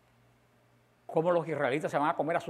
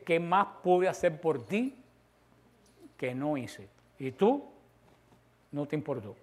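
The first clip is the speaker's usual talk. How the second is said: slow lament; slower than usual. Acted. Lord's question voiced slowly.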